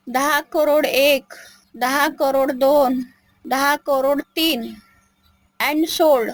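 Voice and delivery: slow counting auctioneer. Acted. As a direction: draw out each count slowly.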